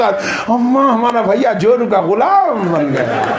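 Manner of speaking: a sister snitching to mother, lightly voiced; mock tattling sister. Sister telling mother her brother became henpecked, teasing. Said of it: "बहना पीछे से".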